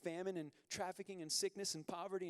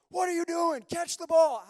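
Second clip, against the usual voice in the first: much higher, louder armchair-fan yell; 11 semitones higher, 14 dB louder than usual. Retold or imitated. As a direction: bark at the quarterback like a sofa coach. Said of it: "yelling at 'em through my TV".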